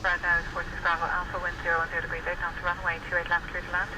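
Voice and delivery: air traffic control radio. Real, not acted. Controller clearance over the radio.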